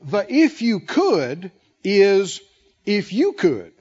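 "The 'if you could' is" slow, then "'if you could.'" tossed back; slow echoing read. Shown as a demonstration. Pastor reading the Darby verse, slow with an echo. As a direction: spell it out slowly, then echo it. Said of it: "The Darby translation says it like this".

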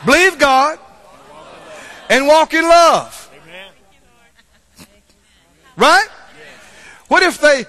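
rising to a full shouted sermon refrain; fiery preaching. Acted. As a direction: preach it hard to the congregation, building. Preaching at full force, building.

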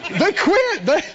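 high, laughing through the words; chuckling as she tells it. Real, not acted. Laughing while telling about leaving.

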